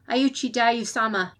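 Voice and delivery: ringing call that fills the room; clarion-loud reproach. A narrator's reading. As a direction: raise the voice to command. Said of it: "Her voice was as loud as a clarion call".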